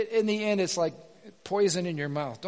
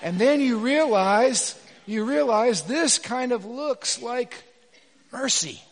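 slow build; 4 semitones higher, 4 dB louder, slower than usual. Real, not acted. Preacher slowing to the point.

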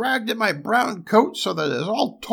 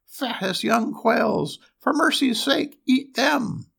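very high, pleading dwarf voice; dread-filled cry; 12 semitones higher, 4 dB louder than usual. A narrator's reading. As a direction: beg for your life in a loud, squeaky dwarf voice. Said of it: "in the dread of his heart, he cried".

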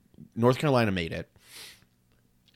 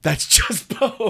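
slow high trailer announcer; 10 semitones higher, 4 dB louder, much slower than usual. Acted. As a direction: drag it out like a title card. Riffing the show title.

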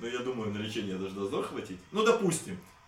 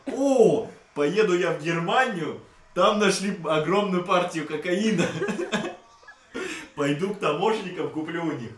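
excited shout; 6 semitones higher, 8 dB louder than usual. Pretend. Acted quote of junkie father.

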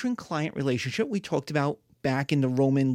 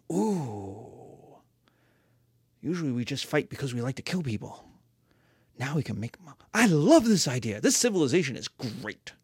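impressed barbarian; 4 semitones lower than usual. Acted. Barbarian won over.

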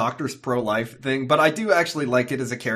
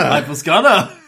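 tag startled; 3 semitones higher, 9 dB louder than usual. Retold or imitated. Echoes the startled Rory impression.

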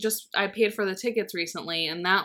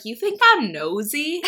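slow, higher, louder teasing quote; mock nosy friend; 6 semitones higher, 5 dB louder than usual. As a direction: quote her, playfully offended. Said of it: "and you're like".

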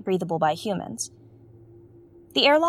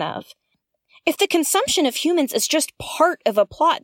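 mounting alarm; 5 semitones higher than usual. Acted. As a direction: demand answers in growing dread. Horrified musing over the message.

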